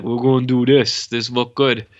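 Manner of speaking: a hint of a caveman director; lightly voiced caveman grunting out orders; caveman talk. Imagining the director approving his footage, mock caveman. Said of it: "like a caveman".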